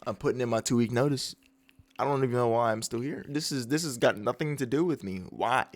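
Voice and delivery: soft, low mock dejection; down bad. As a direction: mumble it like an upset employee quitting. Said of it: "he's down bad. He's really upset".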